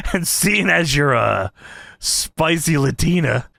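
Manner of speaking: slow, deliberate mock come-on; imitated wrestler's unhurried flirting; slow seductive promo. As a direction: stretch it out suggestively. Voicing Viscera wooing the announcer.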